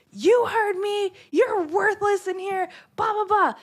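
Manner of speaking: high, slow, mocking telling-off; mimicked scolding coworker. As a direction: drag out her tirade in a high voice.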